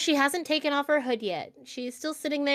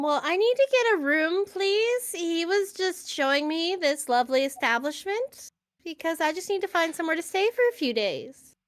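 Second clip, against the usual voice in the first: put-on timid, hesitant young woman; awkward girl voice; 3 semitones higher than usual. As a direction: play her shy and unsure. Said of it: "very good, like, awkward girl voice".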